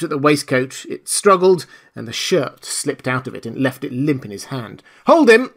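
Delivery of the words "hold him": much higher, louder command; loud order. Acted. Jaffers to the men, a loud high command. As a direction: bark it at the crowd. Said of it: "said Jaffers loudly".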